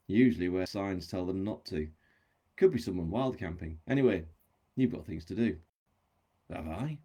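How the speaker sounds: measured audiobook reading with livelier dialogue; story narration. A narrator's reading. Author reads chapter extract to audience, story narration. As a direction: read a novel aloud, voicing the dialogue.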